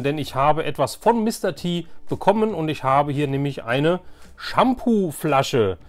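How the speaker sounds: ordinary talk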